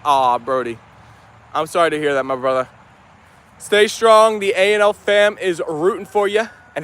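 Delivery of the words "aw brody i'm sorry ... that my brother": sympathetic. Real, not acted. Consoles viewer after health flare-up.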